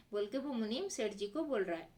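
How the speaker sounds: usual speaking voice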